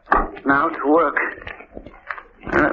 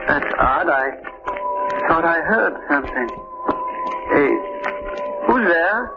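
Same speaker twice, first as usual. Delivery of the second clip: growing fear. Acted. Alone, hears intruder in dark.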